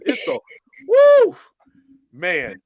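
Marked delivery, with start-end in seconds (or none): 0.9-1.4 sharp high loud woo; exasperated whoop, much higher; excited whoop. Real, not acted. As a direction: let out a whoop. Exclaiming about the rant.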